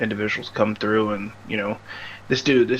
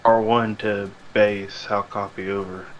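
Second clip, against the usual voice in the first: crackly military radio. Retold or imitated. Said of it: "you're gonna be here".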